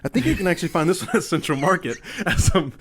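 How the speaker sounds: strained, laughing through effort; struggling with lid. Real, not acted. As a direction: talk while forcing a stuck lid open. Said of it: "as I'm struggling to open this lid".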